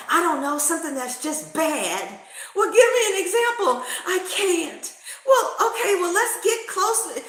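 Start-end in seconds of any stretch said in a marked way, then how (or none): 2.5-7.2 high, loud, giggling through it; laughing. Retold or imitated. Teller questioning her anxious friend, high and laughing. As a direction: push her for an example while laughing.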